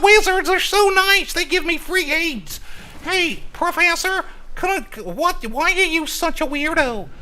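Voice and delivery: very high, put-on gibberish-accent impression; mock impression. Gamer mocks a streamer's gushing gibberish, very high-pitched mocking impression. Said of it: "I can't even do her accent".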